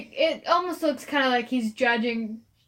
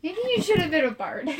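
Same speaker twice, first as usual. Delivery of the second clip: ordinary delivery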